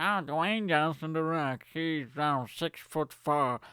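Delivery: slow, mock robotic fact readout; assistant voice. Smart speaker reading out wrestler's height, robotic impression. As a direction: imitate a machine pulling up information. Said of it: "It's gonna pull up the information".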